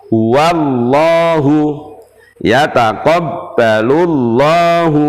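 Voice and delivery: lam said thin and light. Shown as a demonstration. Teacher demonstrates a thin la for students. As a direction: keep the la thin in wallahu.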